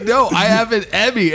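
high-pitched mock insistence; imitated insistence. Comic mimics the man at the car window, imitated insistence. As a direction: imitate him pleading his case up high.

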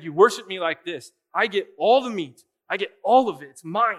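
lightly voiced king, loud and insistent; commanding king. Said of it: "And the king said".

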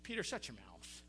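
low, soft voice of God; the Lord rebuking. Acted. The Lord cuts off Peter's babbling, low rebuke. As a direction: drop low and quietly silence him. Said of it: "the Lord speaks".

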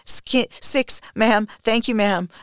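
high, loud count through pain; pained shout. Acted. Submissive counting strokes for a domme, pained shout. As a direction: cry out the count, pitched well up. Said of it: "I shout, my voice trembling".

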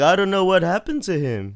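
high-pitched mock Filipino mum; imitating blunt mum. Mum talking about his brother, high imitated mum voice. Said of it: "my mum would just be like".

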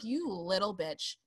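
hammed-up outrage that builds to a shout; exasperated retort. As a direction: tell off a spoiled kid, punching the last words. Snapping back at film's daughter.

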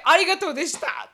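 blurted out with a laugh; laughing, clumsy thanks; awkward thank-you quote. Retold or imitated. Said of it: "って".

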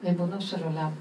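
prayerful address. Shown as a demonstration. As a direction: speak ריבונו של עולם low and inward like a prayer. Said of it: "וזה העבודה עכשיו שאני מראה".

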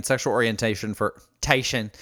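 a slip into Southern vowels on "orientation"; Southern accent. Real, not acted. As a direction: let "tation" come out with a Southern twang. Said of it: "that sounded very Southern".

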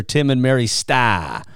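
"Starr" drawn out with no R, Boston-style; Boston accent. Shown as a demonstration. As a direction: imitate a Bostonian saying "Stah". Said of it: "one of my favorite accents".

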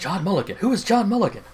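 high-pitched, exaggerated incredulous question; mock bafflement. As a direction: pitch climbing in put-on confusion. Mock bafflement, sitcom conspiracy-board joke.

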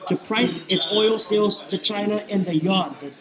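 muffled, distant with background noise; far from mic. Real, not acted. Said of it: "it's really hard to hear you".

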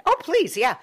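sweetly taking up a stranger's offer; grateful old man. Retold or imitated.

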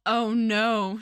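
drawn-out, lightly dismayed retold moan; mock moaning. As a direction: moan it in mild, pretend despair. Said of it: "Charlotte moaned".

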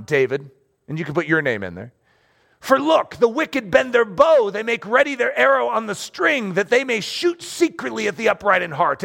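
a hint of a doom-saying tempter, rising to a call at the bow; earthy tempting voice. Preacher voicing the earthy voice to David, mildly urgent. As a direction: voice the whispering doubt that urges flight. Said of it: "this earthy voice that is speaking".

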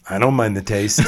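shouted clown voice; Krusty the Clown. Retold or imitated. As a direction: bellow it like a cartoon clown. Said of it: "To quote Krusty the Clown".

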